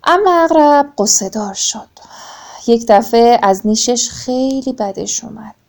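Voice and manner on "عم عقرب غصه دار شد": sad whisper. A narrator's reading. Sad turn in the tale. (زمزمهٔ غمگین)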